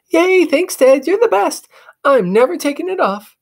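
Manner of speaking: very high, squealing thanks; delighted girl. Acted. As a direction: burst with joy. Sister thrilled with gift.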